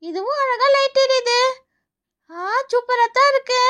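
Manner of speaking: put-on high childlike delight; delighted child. Child admiring another lit tree, delighted.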